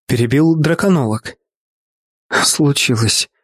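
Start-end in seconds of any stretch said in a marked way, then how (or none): 2.3-3.3 sobbing. A narrator's reading. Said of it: "всхлипнула она".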